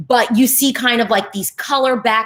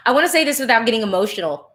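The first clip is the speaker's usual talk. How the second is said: fast, laughing it off while moved; laughing through emotion; faster than usual. Real, not acted. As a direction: push through the feeling with a laugh. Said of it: "I'm already getting emotional".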